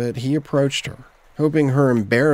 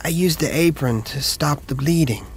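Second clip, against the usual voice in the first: put-on lightly higher, eager young voice; young apprentice voice; 5 semitones higher than usual. A narrator's reading. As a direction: speak up like a nervous young helper. Alice explains.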